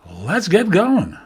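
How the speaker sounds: high, slow, drawn-out sign-on; show kickoff. Real, not acted. Host kicks off the show, bright drawn-out call. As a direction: launch the show with a big call.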